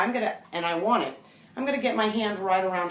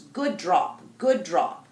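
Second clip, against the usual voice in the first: calm praise; much slower than usual. Shown as a demonstration. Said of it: "I'm gonna say it a couple of times".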